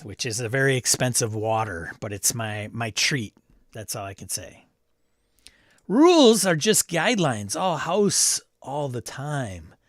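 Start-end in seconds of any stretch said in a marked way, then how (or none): 5.9-9.7 hippie voice. Acted. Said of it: "weird kind of hippie voice".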